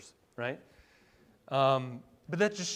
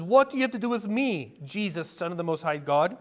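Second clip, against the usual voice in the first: crying out; 3 dB louder than usual. Acted. Preacher reading the demon's words to Jesus, crying out. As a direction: call it out loudly, easing off on the title. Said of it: "he crying out with a loud voice".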